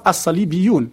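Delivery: as-salibiyoun in Arabic pronunciation; as-salibiyoun voiced in Arabic sounds; Arabic term. Shown as a demonstration. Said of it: "il va utiliser le terme arabe".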